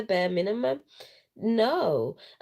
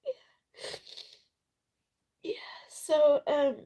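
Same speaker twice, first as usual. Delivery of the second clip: whispering through tears; teary whisper; tearful whisper; 7 semitones higher than usual. Real, not acted. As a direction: still choked, barely voiced. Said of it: "yeah, I was crying".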